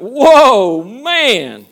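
high, loud amazed whoa; punchline, shout it out in wonder; Adam's delight. Retold or imitated. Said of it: "'Cause Adam went".

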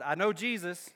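preacher voices the evil spirit taunting the exorcists. Acted. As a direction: sneer it like a spirit that knows better. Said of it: "the evil spirit replied".

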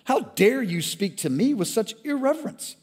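high, loud, indignant ranting; outraged shout. Acted. Brother in the river shouting his sins at the firstborn. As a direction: hurl the guilt out furiously.

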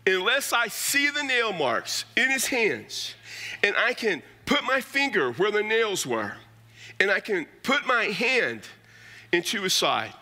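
high, slow, stubborn demand; doubting Thomas. Retold or imitated. Thomas telling the disciples his conditions, high and slow. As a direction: lay down his terms, stretched out. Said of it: "But he said to them".

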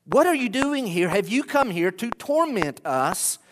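demons asking. Acted. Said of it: "There's their question".

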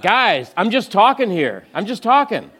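high and loud, laughing disbelief; overwhelmed protest. Retold or imitated. Speaker telling the donors he was only chatting, overwhelmed. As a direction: throw up your hands at how fast it's going.

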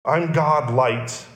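slow, weighty "God bread", "God light", "God vine"; slow it down and lean on God; deliberate slow paraphrase; slow emphatic. Acted. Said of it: "To put that another way".

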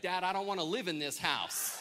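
a hint of defiant child; defiant son. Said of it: "He said".

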